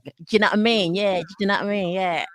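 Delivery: run-together London 'd'you know what I mean'; South London slang impression. Host parodies how London talks, South London slang. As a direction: imitate a Londoner swallowing letters. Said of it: "That's London".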